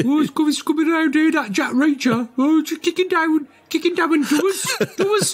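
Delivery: put-on comic Black Country accent. Teasing his co-host with a high Black Country accent. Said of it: "if you did it with the accent".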